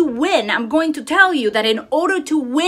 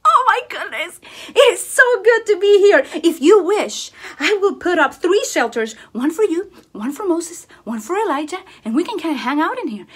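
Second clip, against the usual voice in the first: higher and louder, gushing; excited Peter; 5 semitones higher, 3 dB louder than usual. Retold or imitated. Peter begging Jesus to stay, high and excited. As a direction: gush like a starstruck fan. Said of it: "he was like".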